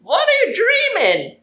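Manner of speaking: squeaky high character voice, slow; high falsetto girl. Acted. Teasing Rivian in his dream, high squeaky voice. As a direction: pipe it up like a cartoon girl.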